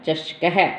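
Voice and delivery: चषकह ending in an audible अह; visarga sound. Shown as a demonstration. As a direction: sound the ह after चषक. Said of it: "तो क्या है इसका उच्चारण?".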